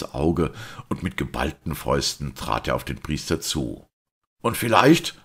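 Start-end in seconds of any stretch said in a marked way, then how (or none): 4.4-5.2 shouted much higher and louder, scornful; a sneering yell; searing scorn. A narrator's reading. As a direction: fanatic detective mocking the priest. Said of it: "schrie er mit sengendem Hohne".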